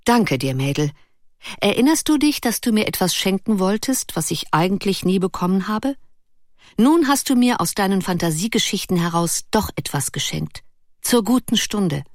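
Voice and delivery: light, cheerful thanks. Acted. Erik cheerfully thanks Ruth for her idea. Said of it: "sagte heiter".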